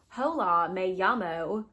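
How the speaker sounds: put-on Spanish read with a light American accent; mock an American gringo saying Spanish phrases; lightly hammed-up American-accented Spanish. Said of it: "but they do it in, like, an American accent".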